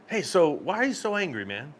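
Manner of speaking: kindly, non-confrontational approach; being nice. Retold or imitated. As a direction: ask nicely, without calling him out. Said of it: "I was being nice".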